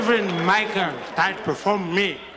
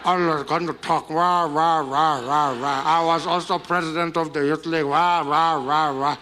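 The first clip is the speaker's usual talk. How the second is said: Julius Malema impression. Comic mocking Julius ranting at the party. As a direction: rant on like a fiery politician. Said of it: "here comes Julius".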